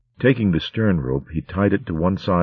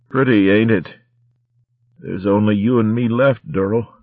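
higher rough dying rasp; dying chuckle; 4 semitones higher than usual. Acted. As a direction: grin through the pain. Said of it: "half chuckle, half gurgle".

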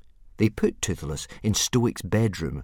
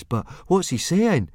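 put-on puzzled boy; 9 semitones higher, 4 dB louder than usual. Fishlegs puzzled.

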